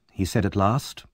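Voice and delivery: ordinary delivery, nothing marked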